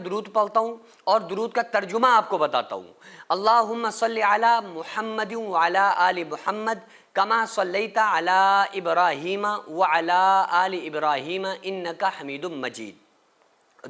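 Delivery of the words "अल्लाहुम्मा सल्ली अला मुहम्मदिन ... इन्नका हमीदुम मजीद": slow, measured recitation of the durood. Shown as a demonstration. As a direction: recite it slowly, word by word. (धीमी तिलावत)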